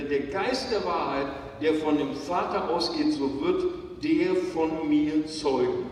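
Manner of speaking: preacher lifting his voice over the church; full-force preaching. Acted. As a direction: drive the verse home like a pulpit climax. Preaching climax with scripture.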